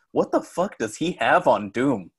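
drawn-out question building to a loud, high mock protest; mock exasperated disbelief. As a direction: imitate a baffled commenter, pitch climbing high and loud. Quoting a baffled online commenter.

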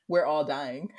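loud, mock-tearful declaration; mock breakdown. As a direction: blurt it between hammed-up sobs. Breakdown acted out for partner.

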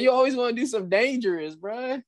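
fast mock scolding. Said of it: "I'm like".

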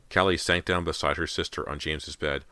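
usual speaking voice

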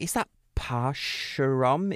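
"Parcheron" sounded out slowly with a sh in the middle; ridiculous mispronunciation. Retold or imitated. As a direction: puzzle out "Parcheron" slowly, as par-sh-rom. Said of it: "like, Parcheron or something ridiculous".

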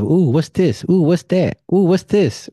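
put-on like a kid in a shop; husband browsing the spiritual store, excited; curious excitement. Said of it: "just looking at stuff".

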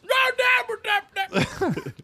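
hillbilly yell. Acted. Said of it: "redneck Turbo voice".

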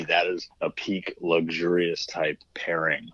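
slow, hushed mock-posh savoring; mock fancy. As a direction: savor it like a mock wine snob. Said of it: "I'm gonna sound really dumb and fancy".

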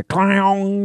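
high, drawn-out ringing clang; imitated guitar smash. Man mimics his friend's guitar smashing, long high clang. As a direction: voice the crash as one long twang. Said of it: "the sound of a guitar smashing".

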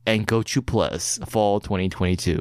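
dramatic trailer closing line; movie trailer voice. Acted. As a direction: announce the release date like a trailer. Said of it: "in a movie trailer voice".

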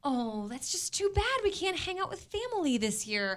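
put-on soft regret; mock disappointment. Cohost acting out people secretly glad to skip family, mock disappointment. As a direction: say it quietly, as if only pretending to be sorry. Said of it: "people out there right now going".

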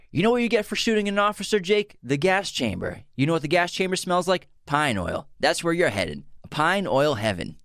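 high, fast Denzel Training Day voice; Denzel impression. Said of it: "that was a good impression".

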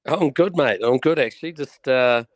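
hoarse, rough morning voice after a big night; croaky voice, a bit of dust in the throat. Real, not acted. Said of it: "is that voice a bit croaky?".

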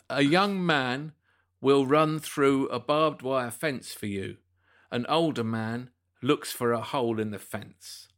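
slow, measured quiz reading; solemn quote reading. Acted. Quizmaster reads a mystery quote to panel, slow solemn delivery. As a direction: spread the phrases out portentously.

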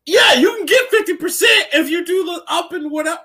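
high, giddy near-shout; retold amazement. Gamer telling friends what the combo does, high incredulous excitement. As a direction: exclaim it high-pitched in disbelief. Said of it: "I was just like".

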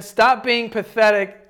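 slow, loud, worked-up reading; drawn-out, forceful and irritated; heated. Real, not acted. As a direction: read it out getting heated. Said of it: "I'm getting heated".

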